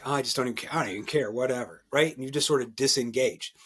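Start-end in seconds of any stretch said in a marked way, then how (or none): 0.0-1.8 mock indifference. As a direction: toss it off like a disengaged worker. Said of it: "it's like".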